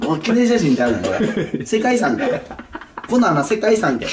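words breaking into laughs; laughing while scolding. Real, not acted. (笑いながらツッコむ)

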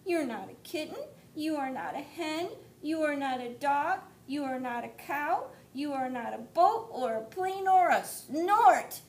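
high, bright listing; a chick proud to recognize her; happy baby bird. Acted. Baby bird tells mother he knows her, high and glad. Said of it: "said the baby bird".

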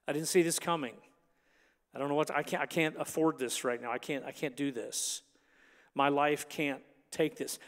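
low, soft admission of helplessness; overwhelmed. Acted. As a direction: quietly voice someone who cannot cope. Voicing someone overwhelmed by trouble.

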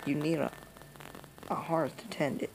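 lightly voiced granny, turning grim; a hint of a granny vowing revenge; old grandma voice. Granny warning the player, then grim.

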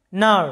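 নার as one syllable starting straight on N; model pronunciation. Shown as a demonstration. Teacher modelling the word for learners, নার with silent G. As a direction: say নার cleanly, with no G before the N. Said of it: "উচ্চারণটা হবে".

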